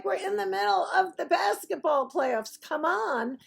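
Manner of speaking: high-pitched incredulous objection; exasperated protest. Retold or imitated. Objecting to talking baseball during basketball playoffs, high exasperated protest. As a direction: protest it high, in one indignant rush.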